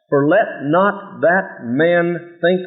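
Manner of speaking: For let not that man think said very slowly, stressing let; slow drawn-out first take; slow first reading. Shown as a demonstration. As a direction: drag out let, leaving a pause. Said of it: "Underscore that".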